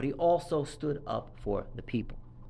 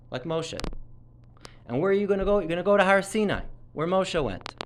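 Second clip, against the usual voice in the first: higher, louder stern urging voice of God; 4 semitones higher, 3 dB louder than usual. Retold or imitated. Rabbi voicing God urging Eliyahu to learn from Moshe, raised and stern. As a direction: lift the voice to rebuke and guide like God. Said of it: "Hashem was trying to tell Eliyahu".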